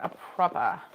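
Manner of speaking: "proper" in a mock British accent, no r, like "propah"; hammed-up British "proper"; bad British accent. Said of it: "there's my really bad accent".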